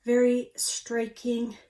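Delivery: breathing heavy between words. Real, not acted. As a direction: talk while out of breath. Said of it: "I'm breathing heavy 'cause I'm fat and out of breath".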